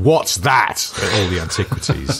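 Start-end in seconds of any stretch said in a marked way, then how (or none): 0.0-0.9 imagined gawping visitor. Pretend. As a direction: blurt it out as a clueless question. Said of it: "just gonna go around going".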